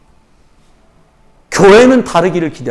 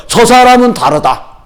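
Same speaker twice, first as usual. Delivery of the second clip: quoting the shamans again; 4 semitones higher, slower than usual. Retold or imitated. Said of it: "그러니까".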